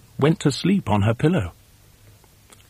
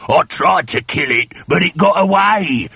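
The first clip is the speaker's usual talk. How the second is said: sly husband; 7 semitones higher, 3 dB louder than usual. A narrator's reading. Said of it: "Mister Twit said".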